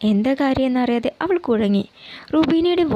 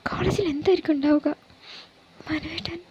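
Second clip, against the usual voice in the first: hushed worried inner voice; whispered thought; 4 semitones higher, 5 dB quieter than usual. Acted. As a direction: breathe the worry to yourself. (ഉള്ളിലെ ആശങ്ക മന്ത്രിക്കുന്നു)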